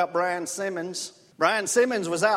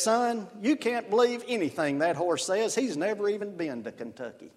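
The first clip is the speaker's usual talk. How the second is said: put-on old farmer; 3 dB quieter than usual. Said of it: "and he says".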